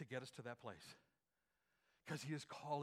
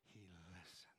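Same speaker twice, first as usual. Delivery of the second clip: whispered; 11 semitones lower, 16 dB quieter than usual. Shown as a demonstration. Preacher leading the church in the phrase, whispered softly. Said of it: "Say that with me".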